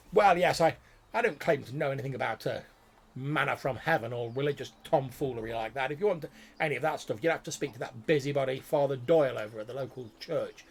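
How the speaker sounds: a fussy scholar raising his voice behind a door. Acted. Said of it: "raised voice from beyond the door".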